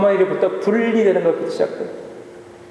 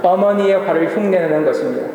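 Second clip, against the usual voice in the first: model prayer. Shown as a demonstration. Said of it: "한번 저를 따라하겠습니다".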